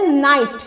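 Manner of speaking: "नाइट" starting on an n sound, no k; silent K. Shown as a demonstration. Teacher showing learners how knight sounds, "नाइट" with silent K. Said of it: "उसको हम लोग क्या बोलते हैं?".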